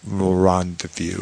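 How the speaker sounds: "Rendezvous" said slowly, with a rising end; a slow, careful "Rendezvous"; drawn-out rendezvous. Shown as a demonstration. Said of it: "one that said rendezvous".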